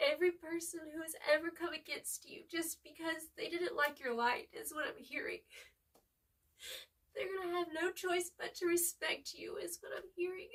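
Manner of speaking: real welling emotion; getting emotional. Real, not acted. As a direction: voice pulled up by feeling. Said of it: "I'm getting really emotional".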